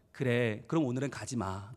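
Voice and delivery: low, soft, giving in; forbearing father. Retold or imitated. Pastor dad letting his child stay home, softly. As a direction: imitate a dad quietly letting it go. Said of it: "이 목사님은".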